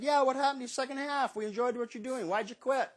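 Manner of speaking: puzzled questioning. Retold or imitated. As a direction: ask as a baffled fan would. Team office asks why he stopped.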